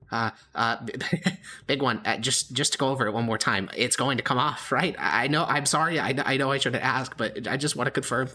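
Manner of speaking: high, stammering, anxious goblin voice; a jittery little goblin begging reassurance; high nervous goblin pleading. Acted.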